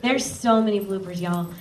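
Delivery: light Southern accent slipping out. Real, not acted. Narrator admitting to many bloopers, Southern accent coming out. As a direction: let a little natural Southern accent through. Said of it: "the Southern accent coming out".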